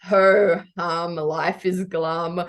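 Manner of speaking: mock glum. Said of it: "I was just like".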